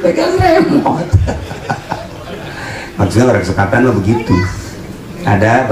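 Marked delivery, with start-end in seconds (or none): 0.0-1.1 laughing squeal. Real, not acted. Laughing aside.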